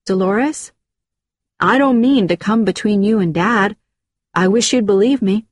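polite, gently lilting appeal; sweetly earnest reassurance; nicest voice. Acted. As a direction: make peace in your nicest voice. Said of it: "I said in my nicest voice".

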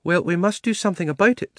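high-pitched, organising lady elephant. A narrator's reading. She-elephant addressing the assembled animals, high and purposeful. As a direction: take charge in a high elephant voice. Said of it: "said the elephant".

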